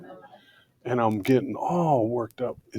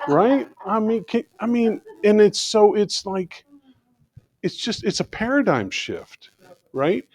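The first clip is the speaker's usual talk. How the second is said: laughing; 11 semitones higher than usual. Real, not acted. Still laughing after the story.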